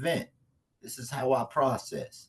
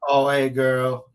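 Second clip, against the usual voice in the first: drawn-out sheepish greeting; 3 semitones higher, 10 dB louder, slower than usual. Acted.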